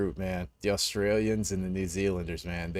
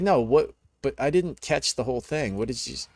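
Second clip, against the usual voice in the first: higher and louder, incredulous questioning; indignant disbelief; 5 semitones higher, 4 dB louder than usual. Retold or imitated. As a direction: demand he repeat it, disbelieving. Designer demanding he repeat it.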